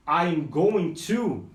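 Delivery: "I'm going to" drawn out very slowly; slow teaching model; slow demo. Shown as a demonstration. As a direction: say it slowly for learners. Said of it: "quando você usa o".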